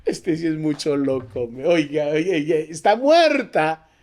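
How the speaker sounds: acted scoffing, stretched on the last words; mocking disbelief. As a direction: scoff like a jeering mourner. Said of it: "Y se burlaban de él".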